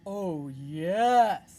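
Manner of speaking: a show-off dragon; boastful dragon. Acted. Dragon bragging to Elizabeth, loud and proud.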